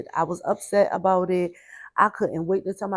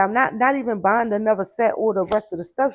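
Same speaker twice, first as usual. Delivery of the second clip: louder, firm imitation of a fed-up grandmother; retold angry grandmother; 3 semitones higher, 6 dB louder than usual. Grandmother refusing to replace the ruined set, mildly heated. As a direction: put some heat in the retold refusal. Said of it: "My grandmother was so hot".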